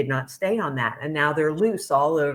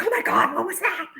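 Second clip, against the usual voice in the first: mock startled; 13 semitones higher, faster than usual. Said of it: "and we'd be like".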